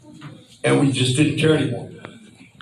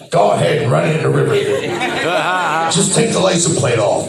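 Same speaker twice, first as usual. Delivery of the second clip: imitating the manager; faster than usual. Manager Alex quoted giving permission.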